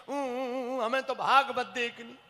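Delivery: put-on slow, sulky kid voice; whining child. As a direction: whine it like a spoiled child.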